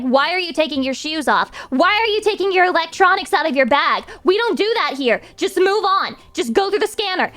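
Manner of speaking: lightly voiced barking security agent, climbing at the end; mock rude TSA agent.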